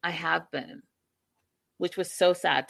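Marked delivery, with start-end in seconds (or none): 0.0-0.8 softer, muttered aside; quiet retold aside; under her breath. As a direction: say it half to yourself. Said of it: "Darcy under her breath says".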